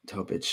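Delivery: first syllable of Topic like "toe", ending in ch; Topic with long o. Shown as a demonstration. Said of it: "I thought it was".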